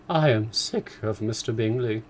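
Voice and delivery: a touch of petulance; fed up wife; wife crying out in mock disgust; mild cry. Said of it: "cried his wife".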